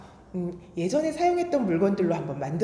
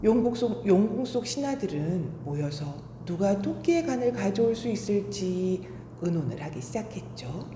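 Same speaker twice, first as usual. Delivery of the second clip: put-on storytelling to children.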